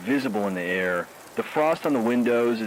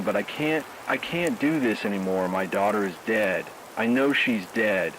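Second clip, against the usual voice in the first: breaking down. Acted. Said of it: "Bob is telling me I need to pull myself together".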